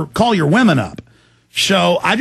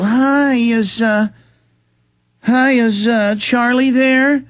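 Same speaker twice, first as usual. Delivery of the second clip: higher, slow, sugary fake-polite phone caller; mock caller voice; 5 semitones higher, much slower than usual. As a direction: play an oily fake-friendly caller asking for Charlie. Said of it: "They'll call up and go".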